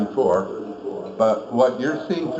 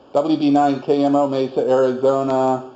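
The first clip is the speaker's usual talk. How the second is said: loud, close on the mic; talking hot into the mic; 3 dB louder than usual. Shown as a demonstration. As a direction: push the level hot, right on the mic. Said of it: "I'm gonna talk really hot now".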